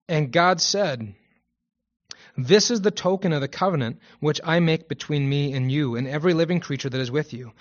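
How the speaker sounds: steady, formal Bible reading; measured recitation with key words leaned on; scripture reading. Acted. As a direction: read God's covenant out to a congregation. Reads Genesis aloud.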